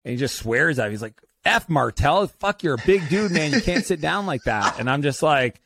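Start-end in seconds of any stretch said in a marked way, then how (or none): 1.5-4.8 upset friend swearing. Retold or imitated. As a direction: retell the friend's shocked swearing, raised. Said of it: "he gets super upset".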